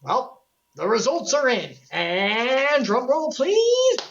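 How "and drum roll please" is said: excited announcement. Acted. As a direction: announce the winner with fanfare. Announcing the test result.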